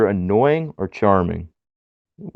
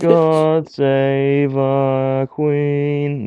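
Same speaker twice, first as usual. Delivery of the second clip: Wade Barrett impression; 4 semitones higher, much slower than usual. Wade Barrett catchphrase, drawn out.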